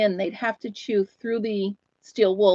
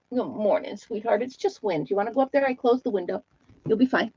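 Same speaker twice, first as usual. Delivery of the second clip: soothing dog talk; 3 dB quieter than usual. Real, not acted.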